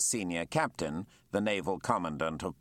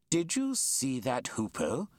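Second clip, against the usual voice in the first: eager, slowed, raised call; excited cry; 6 semitones higher than usual. Acted. Naturalist spots a hoopoe, calls out to Jack excitedly. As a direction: point out the rare bird eagerly. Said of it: "cried the man in the black coat".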